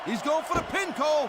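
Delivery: high, urgent pin call; excited commentary. Acted. Commentator calls the pin attempt.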